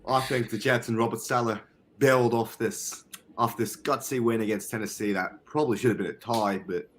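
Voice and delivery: amateur British accent; attempted British accent. Shown as a demonstration. Podcaster talking up the Jets, in an awkward British accent. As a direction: put on an unsure British voice. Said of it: "try and do my British accent".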